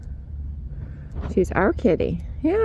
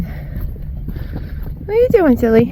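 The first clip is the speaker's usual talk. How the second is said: cooing pet talk; 3 semitones higher, much slower than usual. Real, not acted. Owner coos slowly at her baby goats. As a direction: coo it slowly at the little goats.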